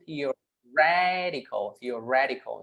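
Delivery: theoretical slowly, with RE stressed. Shown as a demonstration. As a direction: stretch theoretical and hit its RE. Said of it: "So we stress here".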